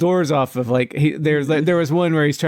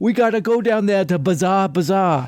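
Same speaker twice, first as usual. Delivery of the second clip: overdone, pitched-up, put-on Boston accent; 5 semitones higher than usual. Mocking someone on a show attempting an accent: exaggerated Boston accent. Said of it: "She thinks she's doing a Boston accent, but she's like".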